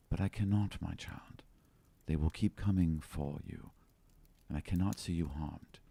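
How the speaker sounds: low, hushed motherly embrace; tender farewell. Acted. Lady Prisma hugging her child goodbye, hushed and tender. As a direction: hold her close and murmur it softly. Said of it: "she leans in and she's like".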